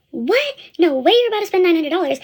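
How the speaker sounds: shocked, high "What?" as the mom; playing the shocked mom, pitch jumping up. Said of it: "The mom literally freaked out".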